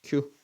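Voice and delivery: 큐 as one syllable; combined glide 큐. Shown as a demonstration. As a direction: blend 큐 into a single beat. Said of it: "큐라고 읽겠지". (큐를 한 음절로 합쳐서)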